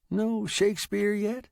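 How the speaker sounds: high, rising question; surprised. A narrator's reading. Old man asking about the typewriter, surprised. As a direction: ask in mild surprise, pitch lifting. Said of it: "he asked, surprised".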